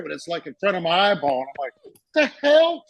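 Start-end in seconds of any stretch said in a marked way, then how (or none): 2.1-2.8 much higher, louder startled the hell; mock shock. Spotting a hair by his eyeball, high startled disbelief. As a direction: yelp of disbelief.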